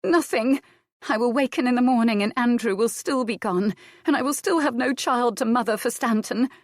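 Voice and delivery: high, loud despairing cry; anguished outburst. Acted. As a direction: break out in anguish. Adair's grief overflows.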